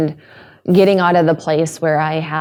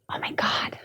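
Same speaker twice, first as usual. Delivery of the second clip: put-on high, breathless little-girl wonder; a child who can't believe what she sees; awed little girl; 5 semitones higher, 7 dB quieter than usual. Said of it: "she's sitting there in the car being like".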